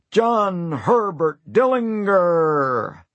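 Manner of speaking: Dillinger with a hard G as in go. Acted. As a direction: say Dillinger with a hard G, not a J sound. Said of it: "He said the G hard".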